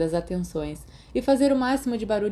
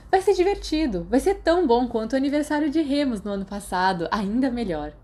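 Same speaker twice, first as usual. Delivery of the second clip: bem mais aguda e mais alta, entusiasmada; animação aguda; 5 semitones higher than usual. Acted. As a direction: convencer Sirius com euforia. Mary insiste animada. (Mary animando Sirius para a festa, aguda e eufórica)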